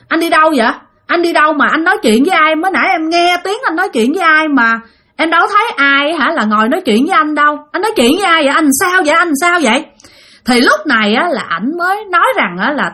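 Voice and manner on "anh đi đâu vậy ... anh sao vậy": higher-pitched string of worried questions; retold insistent questioning. Wife questioning her husband back in the bedroom, retold insistent questioning. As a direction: re-enact pressing someone for an explanation. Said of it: "chị còn hỏi thêm lại một lần nữa".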